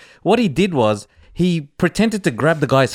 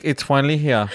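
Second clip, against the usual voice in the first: lower, mock-unimpressed quote; imitating someone unimpressed; 4 semitones lower than usual. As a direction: mimic a co-host who is barely impressed. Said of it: "Emma's not impressed. She's just like".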